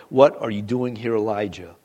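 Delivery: gentle voice. Acted. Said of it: "a gentle voice said".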